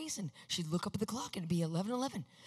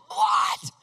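startled shout; 9 dB louder than usual. Retold or imitated. Ken startled by the scream.

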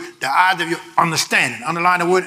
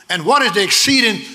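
preaching shout; 6 semitones higher than usual. Real, not acted. Preacher crying the verse out to the church, shouting. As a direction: build the verse to a shouted peak.

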